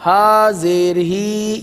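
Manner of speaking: ہا زیر ہی chanted with ہی held too long; wrong drawn-out spelling. Shown as a demonstration. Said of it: "یہ ہجے غلط ہے".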